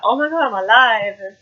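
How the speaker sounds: lightly hammed-up back-from-the-dead announcement; Halloween-style revival. Reviewer mimics girl's Halloween moment, mock-dramatic. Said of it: "like, Halloween thing".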